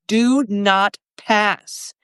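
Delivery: slow, drawn-out do not pass; each word weighed like a wizard's decree; stretched, commanding do not pass; Gandalf command. Acted. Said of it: "I'm gonna be Gandalf".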